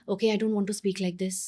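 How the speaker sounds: collected, back at an everyday pitch; self-calming. Acted. Parent correcting herself in front of child, self-calming. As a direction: settle back down after the outburst. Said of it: "take a pause and say".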